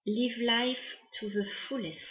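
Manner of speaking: English read with a light French accent. Real, not acted. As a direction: say it in English with a French accent, doing your best. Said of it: "désolée pour mon accent".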